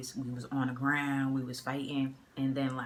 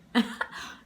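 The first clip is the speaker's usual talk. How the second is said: quick, unvoiced chuckle; brief amused laugh; small burst of laughter; short laugh; 5 dB louder than usual. Real, not acted. Laughs at own story.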